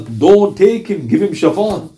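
retold begging prayer, slowing on the plea. Companion begs Allah to spare his friend, pleading. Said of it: "begging Allah".

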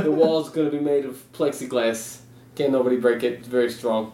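lightly voiced president blend, half one, half the other; a loose mock political boast, barely shifted; hint of a bragging politician impression; Donald Trump Christopher Walken mix. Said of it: "half Trump, half Christopher Walken".

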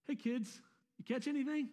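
lightly teasing jab at grown fishermen; teasing jerk. Retold or imitated. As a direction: needle them a little, like a jerk. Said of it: "a little bit of a jerk about it".

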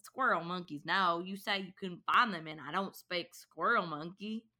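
put-on Kiwi accent. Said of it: "a Kiwi 'cause their accents are so".

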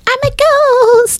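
very high, slow ghostly wail. Pretend. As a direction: moan it like a cartoon ghost. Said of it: "He's like".

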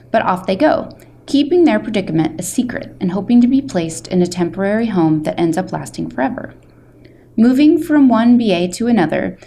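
steady, measured read of a jacket blurb; book blurb reading. A narrator's reading. Librarian reading the front flap aloud to listeners, clear blurb read. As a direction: present the story like a back-cover teaser.

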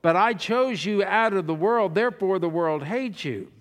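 emphatic public Bible reading; scripture reading. Real, not acted. Preacher reads Jesus' words to the church, emphatic scripture reading. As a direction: read the verse out firmly to a congregation.

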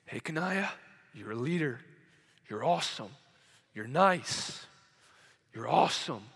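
low, soft, spaced-out affirmations; quietly affirming a student; gentle encouragement. Retold or imitated. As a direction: encourage a child gently, one short phrase at a time. Teacher encouraging a troubled girl.

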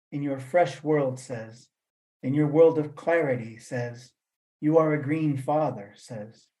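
slow, chant-like recitation with pauses; reciting a quote. Acted. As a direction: intone each line like an incantation. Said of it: "And the quote goes".

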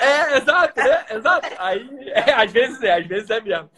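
laughing through the words. Real, not acted. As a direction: chuckle while agreeing. Laughing agreement.

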